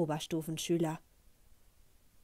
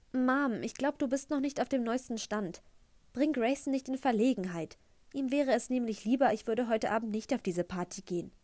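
put-on a touch higher, pointed teen daughter; lightly voiced teen girl; 4 semitones higher than usual. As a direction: needle him in front of mom. Liv voiced by narrator.

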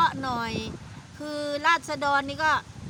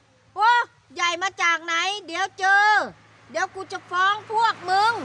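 higher, louder sneering threat; mock furious threat; 6 semitones higher, 5 dB louder than usual. Official threatening to sue aunt, loud angry threat. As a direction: spit out a threat to sue, pushing hard. Man's threat in retold quarrel.

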